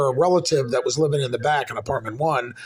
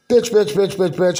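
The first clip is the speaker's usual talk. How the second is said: higher, rattled-off mock griping; mimicked nagging; 4 semitones higher, 4 dB louder than usual. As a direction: imitate her endless bitching. Mimicking her nonstop complaining.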